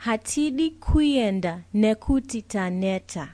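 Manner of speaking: slow model reading for learners to repeat; unhurried lesson pace, each word clear; slow together. Shown as a demonstration. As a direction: say the whole Shona sentence slowly, word by word. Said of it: "let's say the whole sentence together slowly".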